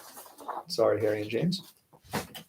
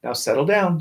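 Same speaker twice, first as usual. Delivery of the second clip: sweet teacher voice; 3 semitones higher than usual. Acted. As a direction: coax them sweetly to settle down. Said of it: "said Miss Nelson in a sweet voice".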